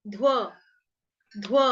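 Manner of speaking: ध्व, ध and व joined in one syllable; pronunciation demo. Shown as a demonstration. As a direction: blend ध्व tightly. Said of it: "तो वो वाला ध्व".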